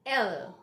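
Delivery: L with the tongue touching the upper mouth; dark, drawn-out L; careful L. Shown as a demonstration. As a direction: let L end in a rolled-back tongue. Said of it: "pronunciation of this letter is L".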